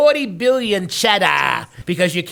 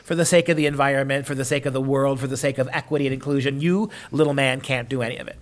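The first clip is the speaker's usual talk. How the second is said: mock elite. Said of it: "they're like Hollywood".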